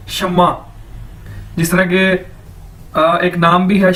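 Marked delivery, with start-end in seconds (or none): 0.1-0.7 शम्मा as "shum-ma", falling at the end; model pronunciation. Shown as a demonstration. Teacher showing how S-H-E-N M-E is said, model pronunciation. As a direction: say शम्मा with a doubled "m". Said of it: "इसको बोलेंगे कैसे?".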